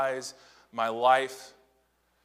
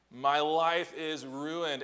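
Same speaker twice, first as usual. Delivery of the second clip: put-on drawn-out teen lament; 4 semitones higher, much slower than usual. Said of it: "Perhaps you've heard or said as a teenager".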